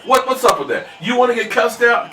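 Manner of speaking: mock angry rant. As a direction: tear into the troll, half joking. Scolding a troll by name.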